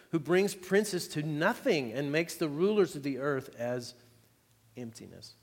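preacher reading Isaiah forty to the church, proclaiming; scripture reading. Acted. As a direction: proclaim the passage to the congregation. Reads Isaiah aloud.

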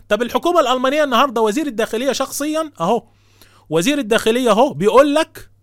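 triumphant. Real, not acted. Triumphant rebuttal to critics.

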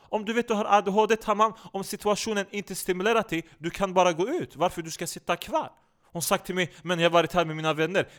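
put-on animated complainer in accented, broken Swedish; indignant comic character. Character recounting a talkative woman at a comedy show, indignant and animated. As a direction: rant insistently, pushing each point.

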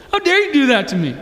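high mock outrage with falling pitch; acted indignant girlfriend. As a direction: confront him as the wronged lover. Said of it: "She's gonna say something like this".

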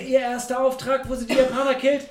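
high, gleeful, laughing retelling; excited. Real, not acted. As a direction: gush about the scene, laughing. Gleeful retelling of opening scene.

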